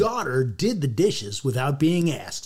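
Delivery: lightly hammed-up ad voice; playful announcer-style delivery; commercial read. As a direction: read it like an audition spot. Reads commercial audition line.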